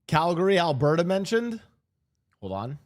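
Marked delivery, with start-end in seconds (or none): 0.1-1.6 high, loud excited question; excited surprise. Real, not acted. Streamer hears Calgary named in the video, excited. Hometown mention interrupts the video.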